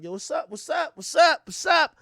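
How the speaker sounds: escalating mock hype, begging for attention; growing hype greeting. Greeting the girls, pushing in.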